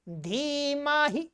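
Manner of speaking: slow धीमहि with a clipped last 'hi'; short final I. Shown as a demonstration. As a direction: keep the end of धीमहि short. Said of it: "ये छोटी ई है". (धीमहि के अंत में छोटी इ)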